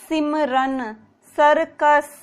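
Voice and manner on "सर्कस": सर्कस with a sharp dental s, not sh; dental s in circus. Shown as a demonstration. Teacher modelling सर्कस, s not sh. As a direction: say सर्कस with a clean s. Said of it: "सर्कश नहीं है".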